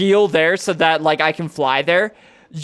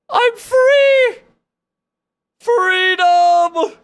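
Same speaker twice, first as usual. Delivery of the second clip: high ecstatic shout of relief; adrenaline rush; 4 dB louder, much slower than usual. Real, not acted. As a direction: yell it like you just escaped. Escaping the dungeon.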